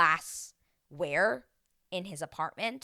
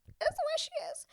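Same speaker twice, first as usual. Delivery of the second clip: whispered aside, high pitched; gossipy whisper. Real, not acted. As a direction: lean in and whisper it. Gossipy aside about Stacy.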